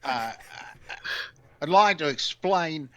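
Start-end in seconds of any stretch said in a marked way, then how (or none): 1.6-2.9 lightly put-on Australian accent, tongue in cheek; a mock Aussie accent played for laughs. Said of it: "a New Zealand or Australian accent for me".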